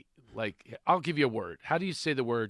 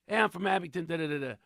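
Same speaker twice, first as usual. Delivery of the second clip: put-on Philadelphia accent; 4 semitones higher, faster than usual. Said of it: "recognize the accent".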